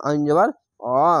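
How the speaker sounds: অ said thick, from a squeezed throat; heavy throaty আইন. Shown as a demonstration. Teacher showing how to squeeze the throat on আইন. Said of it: "মোটা করে এবং গলা চিপে পড়বেন".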